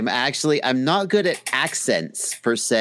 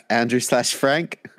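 mimicked English accent; slower than usual. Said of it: "I can mimic the accent".

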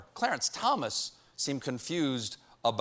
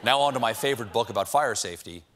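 Clarence Thomas impression; 7 semitones lower than usual. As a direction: lower the voice, deadpan and puzzled. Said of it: "Clarence Thomas in a lit class".

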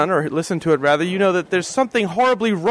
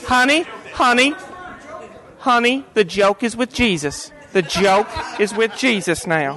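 mock consoling; 3 semitones higher than usual. Comforting the grieving host.

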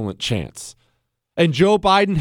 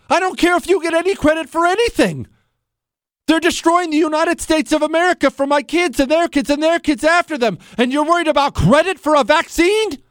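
higher, heated outburst; heated rant; 9 semitones higher than usual. Real, not acted. Host ranting at Trump over vaccine credit, heated. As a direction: let your anger boil over. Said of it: "heated rant".

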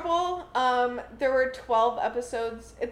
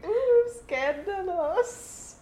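titillated; 3 semitones higher, 4 dB louder, slower than usual. Pretend. Teasing about a scandal.

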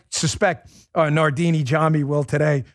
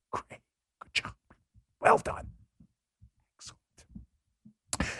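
much softer, whispered mock praise; sarcastic whisper; 13 dB quieter, much slower than usual. Host whispers mock praise to Nardini, soft sarcastic whisper. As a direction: hush the congratulations to a sarcastic whisper.

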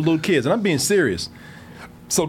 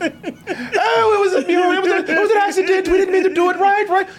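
high, fast, hammed-up British innocence; mocking the fake British excuse; mock British accent; 12 semitones higher than usual. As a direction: put on a fake-polite British voice, much higher. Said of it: "that British accent".

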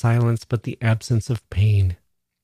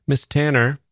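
calling out; 5 semitones higher than usual. Acted. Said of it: "called the doctor".

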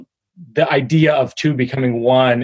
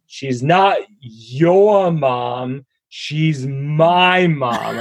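put-on slow, deliberate little child; daughter's voice; much slower than usual. Dad retelling his daughter's bedtime reply, slow and childlike. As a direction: drag out each word like a stubborn toddler. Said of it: "and it said".

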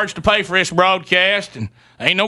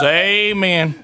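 mock amen shout. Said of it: "And then he goes".

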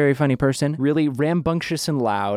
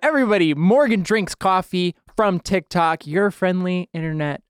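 announcer's welcome; 3 semitones higher than usual. Real, not acted. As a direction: call out to the audience, raised voice. Host announces next guest.

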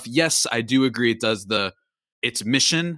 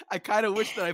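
high, laughing self-quote; confessing a regretted vote to co-hosts, laughing; laughing confession; 8 semitones higher than usual. Retold or imitated. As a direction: giggle through the admission. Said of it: "I was like".

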